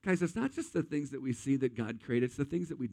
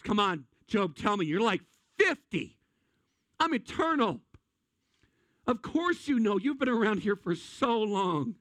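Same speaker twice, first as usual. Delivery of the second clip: sarcastic God; 5 semitones higher than usual. Acted. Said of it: "And then God gets sarcastic".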